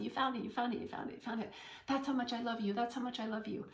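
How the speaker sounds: a hint of a delighted little boy; light, gleeful child's cheer; excited child. Son Jack cheering his mother, lightly voiced gleeful boy.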